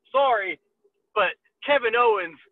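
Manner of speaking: lightly put-on Canadian accent. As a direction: try out a Canadian "sorry". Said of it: "gotta get that Canadian accent".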